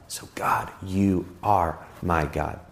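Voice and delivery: soft, slow near-whisper; whispered, slow declaration of faith; hushed prayer. Shown as a demonstration. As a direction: breathe it as a quiet prayer to God. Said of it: "You can say that statement".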